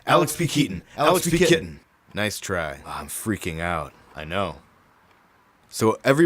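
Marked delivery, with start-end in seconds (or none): 0.1-1.8 higher and louder, rapid-fire name guesses; excited blurting. Acted. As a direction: race to say it first. Both blurt names together, testing.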